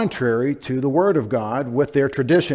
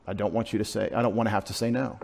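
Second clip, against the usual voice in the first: softer, lower, quick admission; deep-down honesty; 4 semitones lower, 7 dB quieter, faster than usual. Retold or imitated. Preacher admitting his hidden feeling, softly and quickly. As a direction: confess it quietly, under the anger. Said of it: "the truth is that deep down".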